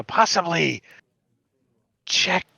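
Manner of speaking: slow, drawn-out spirit voice; ghostly poltergeist voice. Acted. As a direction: draw the words out like a spirit. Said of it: "it says".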